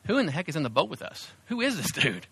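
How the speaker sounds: hushed, disbelieving mock question; mildly terrified awe. Disciples to each other in the boat, hushed mild alarm. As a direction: ask it under the breath, lightly spooked. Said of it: "They're terrified 'cause they're saying".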